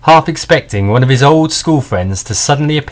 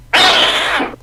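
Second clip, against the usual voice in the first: cat screech. Acted. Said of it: "a loud cat screech".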